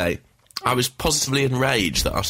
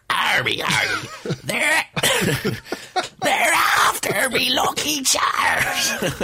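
high cracking Irish leprechaun, laughing; squeaky leprechaun voice; much slower than usual. Pretend. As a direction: croak it out high through laughter. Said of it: "can I go".

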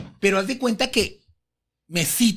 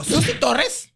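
higher-pitched incredulous echo; angry disbelief; 6 semitones higher, much slower than usual. Retold or imitated. Diva hearing who confirmed it, angry disbelief. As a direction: repeat the name as mock outrage. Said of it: "Está enojada".

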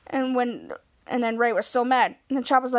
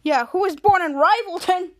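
taunting; 3 semitones higher, 4 dB louder than usual. Retold or imitated. Ray taunting Mika in retold quarrel.

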